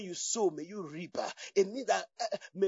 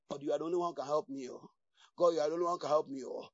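desperate prayer; 7 semitones lower, 5 dB quieter, much faster than usual. Retold or imitated. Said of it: "Are you going through?".

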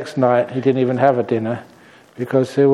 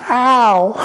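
octopus cry; 11 semitones higher, 4 dB louder than usual. Acted. Octopus hit on the head.

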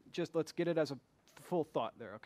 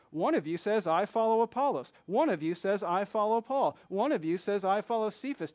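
mocking tone; 2 semitones higher, 4 dB louder than usual. Shown as a demonstration. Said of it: "Do you hear his tone here?".

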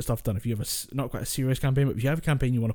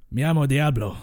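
Spanish orc; 4 dB louder than usual. Acted. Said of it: "if you're gonna do the Spanish orc".

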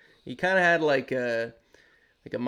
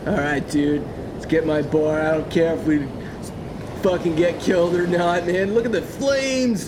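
laid-back surfer bro; stoned beach bro voice; surfer dude; 3 semitones higher, 5 dB louder than usual. Acted. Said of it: "the surfer voices".

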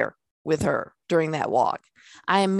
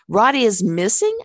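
retold scream; 3 semitones higher, 5 dB louder than usual. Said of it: "I screamed".

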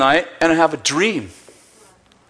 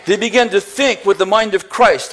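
a preacher's ringing cry; preacher shouting to the congregation about the mind of Christ; preaching shout; 2 semitones higher than usual. Real, not acted. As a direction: call it out to the congregation. Preaching climax.

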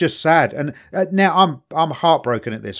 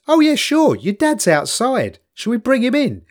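high, breezy policeman voice; mock cheerful policeman; 8 semitones higher than usual. Host imitating the policeman offering to fetch the dad, mock cheery. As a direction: play the copper as falsely friendly. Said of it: "And the policeman says".

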